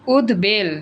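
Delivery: উদ্বেল as ud-bel; ব sounded. Shown as a demonstration. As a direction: clear b after d in উদ্বেল. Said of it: "ব উচ্চারণ হইছে".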